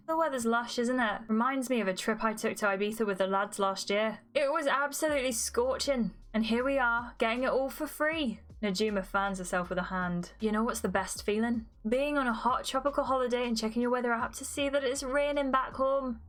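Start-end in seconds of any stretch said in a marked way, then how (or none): 0.1-8.4 amateur Scouse character voice; bad Liverpudlian accent. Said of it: "the speaker's accent is gonna be even worse". 10.4-16.2 amateur Scouse, chatting along; bad Liverpudlian accent. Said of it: "the speaker's accent is gonna be even worse".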